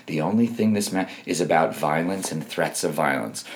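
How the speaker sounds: lightly mocked feeble old man; low, quiet imitation of a pitiful official; hint of a meek old-fool voice; Merrick Garland. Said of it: "He literally sounds like that".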